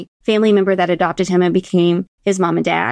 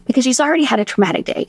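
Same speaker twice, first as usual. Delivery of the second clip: whispering; 4 semitones higher, faster than usual. Real, not acted. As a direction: hush it so as not to startle. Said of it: "I started to whisper".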